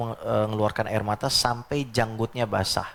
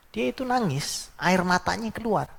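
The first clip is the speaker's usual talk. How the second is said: rising emphatic preaching; 7 semitones higher, slower than usual. Real, not acted. Emphatic preaching about tears.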